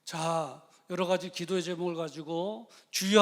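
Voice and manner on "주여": loud called cry of Juyeo; crying out Lord. Shown as a demonstration. Preacher leading the congregation in crying out to the Lord. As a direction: lead the congregation in calling out. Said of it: "한번 부르고 기도합니다".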